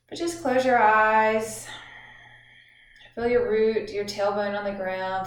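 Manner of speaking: measured instructions with long pauses; guided meditation. Acted. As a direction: guide listeners gently through breathing, drawing out phrase endings.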